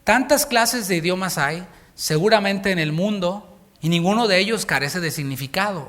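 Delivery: measured preacher reading scripture. Acted. Reads scripture aloud.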